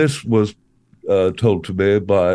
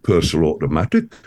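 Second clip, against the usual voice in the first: "Personal automatic" in a low, light Geordie accent; Geordie impression; 5 semitones lower, faster than usual. Shown as a demonstration. Comedian demonstrating Geordie, lightly voiced. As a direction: show off the Geordie key phrase. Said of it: "one more time".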